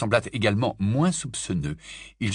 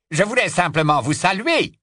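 coldly; 9 semitones higher, 5 dB louder than usual. Acted. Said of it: "dit froidement Travers".

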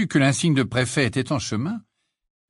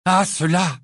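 higher, louder exasperated; girl fuming at the twins, louder; furious; 8 semitones higher, 5 dB louder, slower than usual. A narrator's reading. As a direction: bite the words off in anger. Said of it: "d'un ton furieux".

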